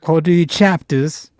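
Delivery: put-on high, slow accent, possibly Jamaican. Offering a rival audiobook voice, Jamaican-ish accent. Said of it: "That might be Jamaican".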